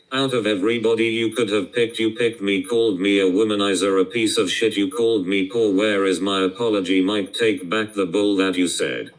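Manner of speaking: loud, heated demand for an apology; angry rant. Real, not acted. Streamer yelling at Mike for an apology, loud and angry. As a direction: shout him down, furious and wounded.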